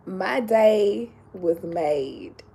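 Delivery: drawn out and slow, each word weighted; slow emphatic. Real, not acted. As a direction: savor every word slowly. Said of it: "let me say it again".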